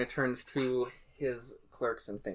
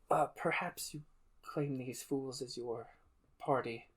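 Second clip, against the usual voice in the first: whispered aside; 8 dB quieter than usual. Acted. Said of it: "she whispers".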